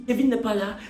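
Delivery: appel qui monte jusqu'au cri aigu désespéré; parodie du film, de plus en plus fort. Retold or imitated. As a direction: crier Kevin de plus en plus haut, comme une mère paniquée. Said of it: "Le film, on dit". (appel parodique de plus en plus fort et aigu)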